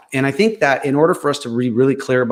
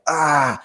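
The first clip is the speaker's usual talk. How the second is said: higher-pitched "ah" of aggression; mock aggressive outburst; 4 semitones higher than usual. Speaker showing how aggressive they can be, mock outburst. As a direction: imitate your own pushy outburst. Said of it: "I can be aggressive".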